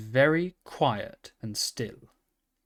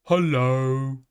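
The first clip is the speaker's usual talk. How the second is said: panting a little; 4 dB louder than usual. A narrator's reading. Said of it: "panting a little".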